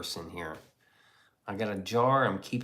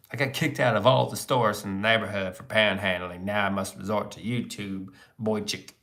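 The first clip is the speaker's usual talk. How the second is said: put-on beggar voice. Mock beggar character voice.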